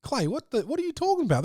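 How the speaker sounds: mock-baffled squeak; wide-eyed high disbelief; incredulous. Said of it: "And you're like".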